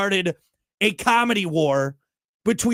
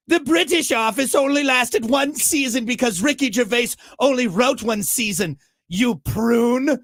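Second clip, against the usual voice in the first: higher-pitched mock British accent; horrible British accent; 5 semitones higher than usual. Host reading an insulting comment to co-host, mock British accent. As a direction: read it in a put-on British accent. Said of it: "should I do these all in horrible British accent".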